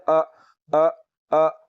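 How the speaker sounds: अ from the lowest part of the throat; a clean glottal अ; hamza from low throat. Shown as a demonstration. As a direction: hamza sound demo. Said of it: "हलक के नीचे वाले हिस्से से".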